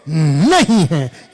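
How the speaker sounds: forceful preacher shout; loud. Acted. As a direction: declare it loudly. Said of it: "जोर से".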